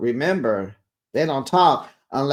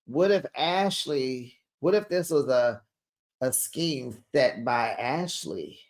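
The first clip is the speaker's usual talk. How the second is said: conspiratorial hush; 5 dB quieter than usual. Real, not acted. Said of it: "I have a theory".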